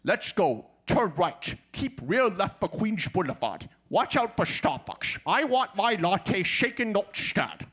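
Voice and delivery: lightly voiced Scottish spy; mild Sean Connery impression. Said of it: "Here's Sean Connery".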